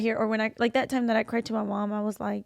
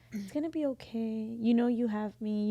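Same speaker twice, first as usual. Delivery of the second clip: soft, tender comforting; imitating a mother's quiet soothing; gentle reassurance; 6 dB quieter than usual. Mom reassuring her stressed daughter, gentle.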